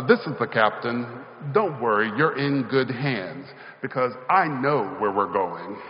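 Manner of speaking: calm the passengers like a pilot in charge; a hint of an airline captain's announcement; authoritative captain. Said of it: "a very authoritative voice came over the intercom".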